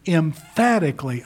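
weighty stress on Emphatically; emphatic. Retold or imitated. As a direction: punch the FAT in Emphatically, firm and deliberate. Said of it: "Jesus is emphatic on this".

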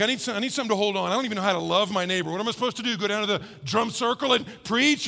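fast, tumbling imitation of an overwhelmed listener; a quick, flustered mock complaint; flustered rush. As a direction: rattle it off in a panic. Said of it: "But you're like".

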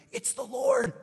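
very high, strained cry of recognition; excited calling out. Retold or imitated. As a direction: call it out as if across water. Disciple calls out to Peter.

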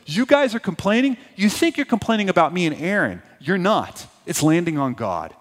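lightly voiced Moses chiding grumblers; exasperated leader to the grumblers; Moses rebuking. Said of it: "He's like".

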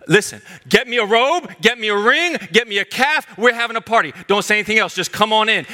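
calling the servants to celebrate; father's joyful orders. Retold or imitated. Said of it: "the father cut him off".

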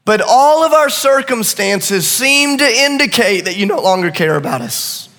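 mild voiced cry of frightened disciples; crying out to Jesus. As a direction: plead with Jesus, half desperate. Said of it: "they begin to, to cry out".

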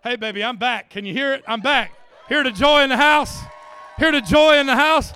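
loud, high jubilant preaching cry; joyful shout. Real, not acted. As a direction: shout the joy to the whole room.

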